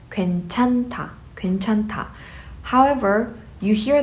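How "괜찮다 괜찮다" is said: 괜찮다 said with a strong "ta" ending; correct pronunciation. Shown as a demonstration. Teacher models the word for okay, correct pronunciation. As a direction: end 괜찮다 on an aspirated "ta", h silent. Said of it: "you just pronounce it as".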